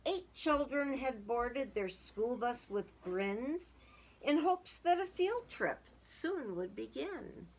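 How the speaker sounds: lively storybook reading aloud; sing-song children's story voice. A narrator's reading. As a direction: read it like a rhyming picture book to kids. Reading a picture book aloud.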